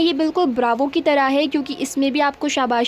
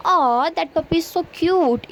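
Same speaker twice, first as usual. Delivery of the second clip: cooing; 3 semitones higher, much slower than usual. Shown as a demonstration. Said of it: "किसी पर हमें प्यार आ रहा है".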